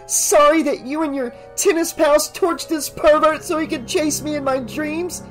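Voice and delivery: enraged daughter accusing mother; furious accusation. A narrator's reading. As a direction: lash out at her mother.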